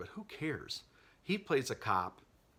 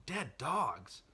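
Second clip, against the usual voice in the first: higher-pitched disbelieving echo; incredulous question; 4 semitones higher than usual. Acted. Voicing the listener's reaction to the reveal, incredulous question. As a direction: question it as if you misheard. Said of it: "I know what you're thinking".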